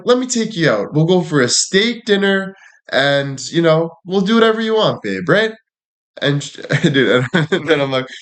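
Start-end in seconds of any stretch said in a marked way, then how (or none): 0.1-5.5 mock flirting. Acted come-on to the agent.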